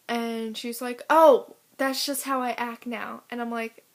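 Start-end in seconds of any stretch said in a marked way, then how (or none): 1.1-3.2 mock dismissive girl. Mimics girl brushing off complaint.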